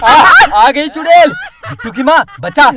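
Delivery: hammed-up fright calling for help; panicked cry. Husband begs his wife to save him, comic panic.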